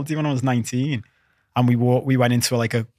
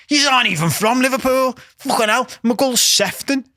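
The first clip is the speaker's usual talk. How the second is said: much higher, indignant imitation; mock outrage; 8 semitones higher than usual. Lad dismissing where the holidaymakers come from, indignant. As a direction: retell his disbelief in a high, scandalised voice. Acts out the lad's outraged reply.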